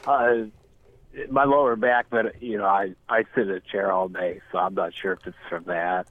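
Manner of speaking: nose pinched shut; pinching nose. Acted. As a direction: talk with a clothespin on your nose. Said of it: "the clothespin on your nose".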